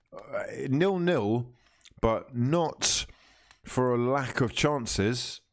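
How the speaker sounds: talking through a cracker; slow words round a mouthful; mouth full. Real, not acted. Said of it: "I just put a cracker in my mouth".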